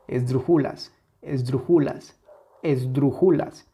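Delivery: esdrújulas misstressed as esdru-JU-las; stress removed. Shown as a demonstration. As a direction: move the beat off DRU onto JU in esdrújulas. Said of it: "Si le quitamos esa intensidad". (esdrújulas sin fuerza en DRU, como esdrujúlas)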